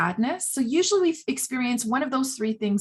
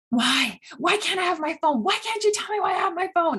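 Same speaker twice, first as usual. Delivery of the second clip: higher, rising mock child whine; whiny child yelling; 8 semitones higher than usual. A toddler whining at mom about the phone, rising mock yell. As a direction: voice a toddler protesting, pitch climbing. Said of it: "And maybe they're yelling".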